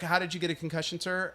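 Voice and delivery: lightly voiced nurse, matter-of-fact; mild, understated nurse enquiry; nurse's routine question. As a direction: ask it softly as a routine intake question. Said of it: "the nurse is like".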